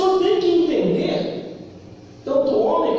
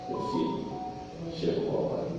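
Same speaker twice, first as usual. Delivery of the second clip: reverent whisper; 9 semitones lower, 12 dB quieter than usual. Acted. God speaks to Jesus, hushed.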